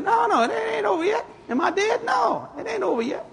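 high, fervent, tearful-edged shout; preaching shout. Acted. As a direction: cry it out to the congregation. Preaching crescendo.

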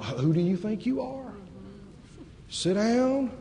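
a hint of a hushing church voice; mock-soothing devil talking down; mock devil's hushing. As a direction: shush the eager believer, softly. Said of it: "The devil has lied through pulpits".

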